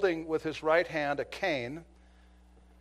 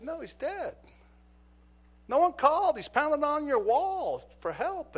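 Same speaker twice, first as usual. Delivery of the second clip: loud, higher, indignant; insistent; 12 semitones higher, 5 dB louder than usual. Retold or imitated. Officer confronting the neighbor, loud and indignant. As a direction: press her hard with it. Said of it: "I was insistent".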